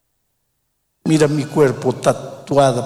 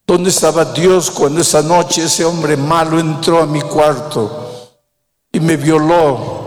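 anguished accusation. Retold or imitated. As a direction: confront God's absence with grief. Predicador da voz a la mujer. (reproche angustiado de la mujer)

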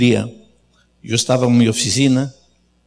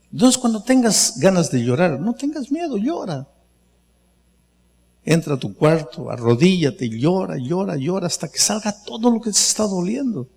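tender urging; 4 semitones higher than usual. Real, not acted. Pastor gently urging listeners to cry.

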